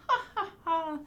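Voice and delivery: light mock ha-ha-ha; a playful puppy laugh; little dog laughing. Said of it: "The little dog laughed".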